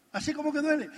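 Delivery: emphatic repeat. Real, not acted.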